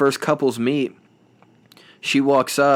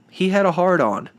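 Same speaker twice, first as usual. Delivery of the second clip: higher, mock-scandalized reveal; mock shocked contestant; 8 semitones higher than usual. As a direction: imitate her gasping confession to camera. Quoting her diary camera line.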